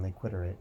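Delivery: "quitterate" said like "iterate" with a "qu" in front, rhyming on "-itterate"; coined rhyme. Shown as a demonstration. Speaker coining a catchy rhyme for listeners, playfully. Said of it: "something a little bit more catchy and rhymey".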